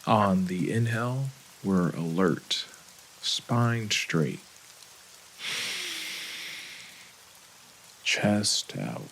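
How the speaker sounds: calm, unhurried meditation guide with long pauses; guided meditation. Acted. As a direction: gently lead them into breath and body, leaving space between phrases.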